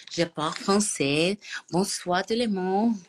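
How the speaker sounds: put-on French words in an odd, not-quite-French accent; learner's odd French accent; sudden odd accent. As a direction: try a French accent that slips. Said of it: "I have, like, a different accent all of a sudden".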